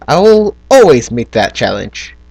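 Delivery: mock-heroic vow in a British accent. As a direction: declare it like a British storybook hero. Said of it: "talking in a British accent".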